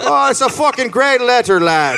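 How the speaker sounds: high, rowdy praise; admiring rower. Acted. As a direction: cheer the writer like a delighted crewmate. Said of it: "everyone's like".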